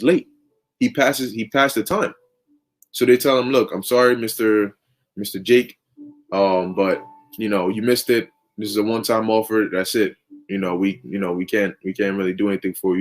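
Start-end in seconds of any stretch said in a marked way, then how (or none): 3.5-13.0 lower, flat official letdown; lightly voiced interviewer declining; a hint of a stiff interviewer. Interviewer turning Jake away.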